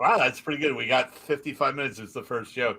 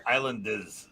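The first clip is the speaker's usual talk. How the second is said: Long Island "Islanders" with dropped R; Long Island accent; 3 semitones lower, 5 dB quieter, slower than usual. Shown as a demonstration. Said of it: "if you were really from Long Island".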